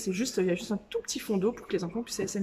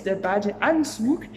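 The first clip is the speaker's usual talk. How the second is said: "das Schwimmbecken" drawn out slowly and clearly; teacher modelling a German word slowly; slow vocabulary demo; much slower than usual. Shown as a demonstration. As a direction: present the new word slowly to the class. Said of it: "Je vais t'apprendre du vocabulaire".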